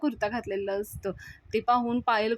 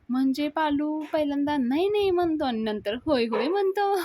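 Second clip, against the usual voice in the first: higher-pitched, mock-coy question; bashful; 5 semitones higher than usual. Payal shyly asks her sister-in-law about Palu, bashful. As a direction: imitate a shy, delighted girl. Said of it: "म्हणून लाजत असते".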